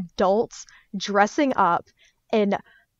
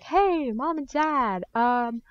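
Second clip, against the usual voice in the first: put-on high, sweet-talking kid voice, a bit overdone; wheedling teen; 5 semitones higher than usual. Teen sweet-talking mom and dad into a convention trip, high and wheedling. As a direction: coax the parents in a high pleading voice.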